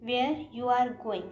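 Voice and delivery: where you are going said very slowly, word by word; teacher slowly reading the wrong sentence; slow, spelled-out wrong sentence. Shown as a demonstration. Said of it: "गलत है".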